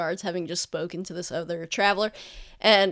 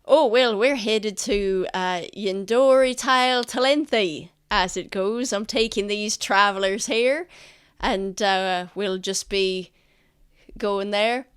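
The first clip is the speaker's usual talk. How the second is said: merchant answering; 4 dB louder than usual. Acted.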